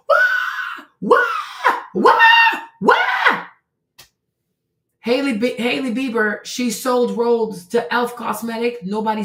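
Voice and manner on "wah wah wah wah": high shouted cartoon crying wails; mock baby wail. Mocking upset customers with loud baby crying.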